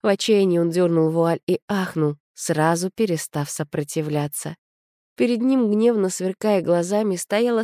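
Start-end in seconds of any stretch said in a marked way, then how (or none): none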